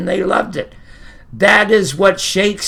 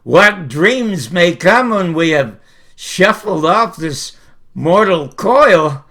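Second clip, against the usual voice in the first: slow and louder, every word weighed; emphatic soliloquy; 5 dB louder, slower than usual. Shown as a demonstration. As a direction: drive the point home to the audience. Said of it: "And here it is".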